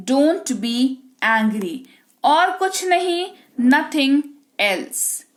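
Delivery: slow, measured language-teacher read-out; deliberate bilingual vocabulary drill; phrase drill read-out. Shown as a demonstration. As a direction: read each phrase out clearly for learners, pausing after it.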